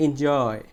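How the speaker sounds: এনজয় with "joy" drawn out; stretched stressed syllable. Shown as a demonstration. Teacher leading students to stretch together, long stressed "joy" in এনজয়. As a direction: lean long on the second half of এনজয়. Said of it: "জয় বলতে গেলে একটু জোরে".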